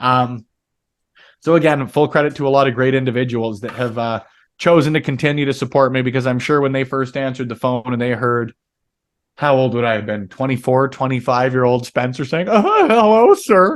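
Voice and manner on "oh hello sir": put-on nervous, awkward voice, higher and louder. Retelling his first nervous interviews answering the phone: imitating his own nervous interviewer voice. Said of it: "in, like, a terrible interviewer voice".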